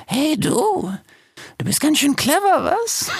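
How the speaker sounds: very high, teasing hyena voice. A narrator's reading. Hyena calls up to the fox, high teasing voice. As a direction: pitch it way up, sly and giggly.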